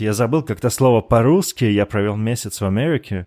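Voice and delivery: light mock American accent, show-off returnee. Joking about coming back from America, mild put-on American accent. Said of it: "начну говорить с характерным акцентом".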